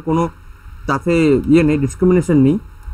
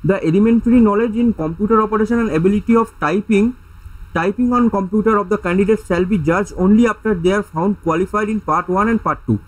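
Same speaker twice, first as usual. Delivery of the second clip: slow reading aloud; much slower than usual. Shown as a demonstration. Reading exam rules from a slide.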